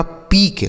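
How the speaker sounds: पीक with one long pure "ee"; long ee vowel. Shown as a demonstration. Teacher spells it out for children, पीक with long ee. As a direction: say पीक as "peek". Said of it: "बड़ी ई की मात्रा".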